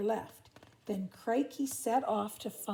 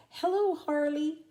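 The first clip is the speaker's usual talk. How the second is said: calling out; 6 semitones higher, 6 dB louder than usual. Acted. Desperate emu calling.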